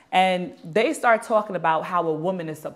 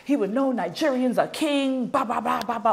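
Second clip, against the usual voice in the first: higher-pitched imitation of a ranting man; mock cursing out; 4 semitones higher, 3 dB quieter than usual. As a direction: reel off accusations, trailing into blahs. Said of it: "He's cursing me out".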